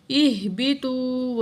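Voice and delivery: slow, drawn-out tajweed chant; Quran recitation. Shown as a demonstration. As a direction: recite slowly with long vowels. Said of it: "واو ساکن ہے". (آہستہ تجوید کے ساتھ تلاوت)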